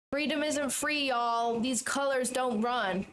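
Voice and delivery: put-on American accent, last words drawn out slowly; lightly played patriotic American voice. Shown as a demonstration. Streamer showing viewers an American accent on request, put-on American accent. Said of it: "American accent, what should I say?".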